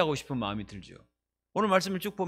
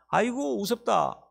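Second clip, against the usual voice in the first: mocking scoff; 5 semitones higher, slower than usual. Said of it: "이렇게 말을 했습니다".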